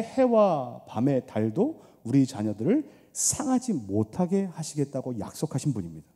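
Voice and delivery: earnest intercessory prayer; fervent prayer. Acted.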